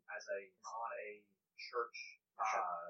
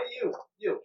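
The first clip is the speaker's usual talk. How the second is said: loud, higher-pitched hail; attention-getting call; 8 semitones higher, 7 dB louder than usual. Acted. Player hailing a busy priest across the bakery, loud call. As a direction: call out to catch someone's attention. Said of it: "try to get their attention".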